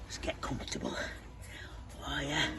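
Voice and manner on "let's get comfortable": whisper. Acted. Settling in tree.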